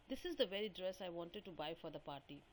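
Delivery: said quickly in one continuous run; quick remark. Acted. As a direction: act out a quick, casual remark. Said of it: "So I quickly say that".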